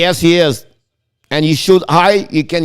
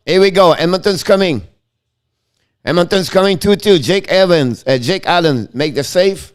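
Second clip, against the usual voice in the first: play-by-play. Acted. Live play-by-play call.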